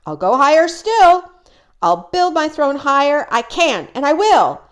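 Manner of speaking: boastful king. Acted. Yertle rants about higher throne.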